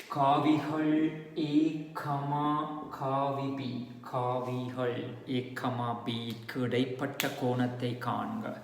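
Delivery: slow, spaced-out exam-question dictation; drawn-out words read for copying. Real, not acted. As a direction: dictate slowly so students can write.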